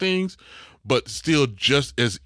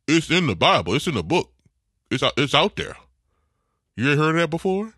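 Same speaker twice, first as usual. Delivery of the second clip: higher, louder mock coworker insisting; imitating coworker; 8 semitones higher, 5 dB louder than usual. Quoting coworker to podcast cohost, mock insistent voice. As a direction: quote the coworker's stubborn reply. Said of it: "his reply right after it was".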